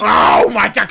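loud frustrated outburst; exasperated shout. Real, not acted. Host fed up with his guest, shouting. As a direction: shout it in disbelief.

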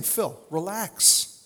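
slow, soothing "Phil, relax"; calm a worried friend down; gentle friendly reassurance. Retold or imitated. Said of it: "He was essentially saying".

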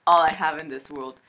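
lightly put-on Cuban gangster accent, close to giggling; Tony Montana. Host takes a turn at the balls quote, amateur Cuban accent. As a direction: swear it like a mock Cuban drug lord. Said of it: "do the accent too".

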